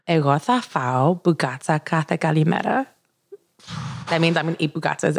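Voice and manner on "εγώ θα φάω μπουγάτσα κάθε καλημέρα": smooth Greek delivery; speaking Greek. Shown as a demonstration. Asked to say something in Greek for the listeners, speaking Greek. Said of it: "You sound so sexy when you speak Greek".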